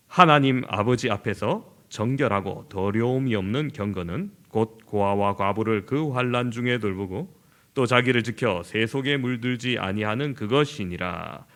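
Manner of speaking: slow, measured Bible reading; formal scripture recitation. Acted. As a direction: read the verse slowly and solemnly. Reads scripture aloud.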